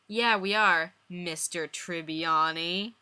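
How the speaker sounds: Chandler's voice. Acted.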